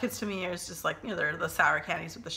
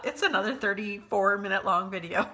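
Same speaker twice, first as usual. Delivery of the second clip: laughing. Real, not acted. Laughing at the video's length.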